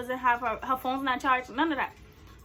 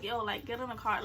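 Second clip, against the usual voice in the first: low, soft imitation of a calm friend; understated and unbothered; 4 semitones lower, 9 dB quieter than usual. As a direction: coax quietly, keeping it level. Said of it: "she was the calmest person".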